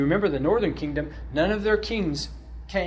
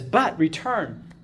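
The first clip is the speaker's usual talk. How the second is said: slow, drawn-out plea; a mild, slowed appeal to return; pleading; much slower than usual. Retold or imitated. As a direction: beg them gently to come back. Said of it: "he's pleading with them to return".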